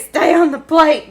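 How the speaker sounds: high, loud, slow mock command; mock plea to the potatoes. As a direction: beg the falling potatoes to stay put. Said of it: "And I'm just like".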